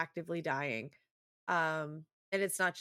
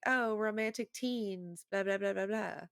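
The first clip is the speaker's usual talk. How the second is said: slow sing-out, then blah-blah; mock the romance cliché; dismissive mockery; 4 semitones higher than usual. Waving away teen romance tropes, dismissive. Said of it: "necessarily being like".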